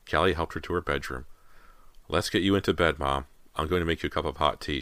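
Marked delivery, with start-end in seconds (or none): 2.1-4.8 softly. Acted. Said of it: "she said softly".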